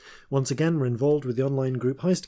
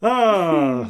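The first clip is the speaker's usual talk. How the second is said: zombie groan; 3 semitones higher, 8 dB louder than usual. Acted. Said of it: "My old man sound is not unlike my zombie sound".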